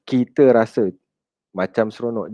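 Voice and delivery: skeptical, fading repeat of "seronok"; doubting echo. Shown as a demonstration.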